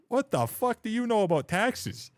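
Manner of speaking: high, slow, drawn-out indignant yell; retold furious yell. Streamer retelling cursing out a teen viewer, slow high furious yell. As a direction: stretch it out high with disbelief. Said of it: "I'm like".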